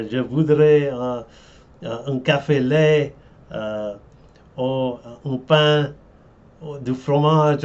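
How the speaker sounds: put-on hesitant English-accented French order; foreign accent in French. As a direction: order in clumsy pidgin French. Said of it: "my pidgin French".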